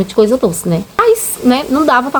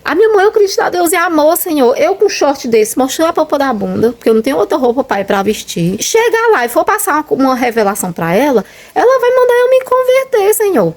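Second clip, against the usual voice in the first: retold crying prayer; 6 semitones higher than usual. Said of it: "eu comecei a chorar".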